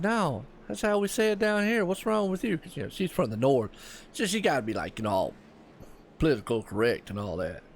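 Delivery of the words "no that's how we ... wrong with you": retort. Retold or imitated. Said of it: "and I said".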